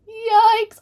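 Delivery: loud, high yelp of yikes; mock alarm. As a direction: cry it out in comic dismay. Mock alarm at serious viewers' experience.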